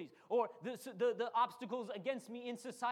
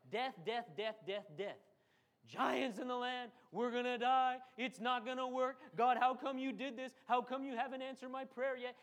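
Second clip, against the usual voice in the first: whining; 2 semitones higher than usual. Retold or imitated. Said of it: "we whine and we complain".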